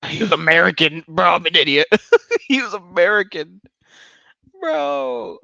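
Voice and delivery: high, loud burst of laughing disbelief; laughing at his own blunder, half shouting; excited disbelief. Real, not acted. Streamer laughing at his own mistake, high and loud.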